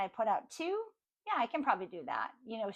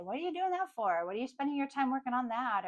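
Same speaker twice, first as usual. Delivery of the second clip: higher-pitched, mildly scoffing questions; mock dismissive; 3 semitones higher than usual. Doubters questioning your goals, mock dismissive. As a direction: lightly imitate doubters poo-pooing it. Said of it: "they're gonna kind of poo-poo".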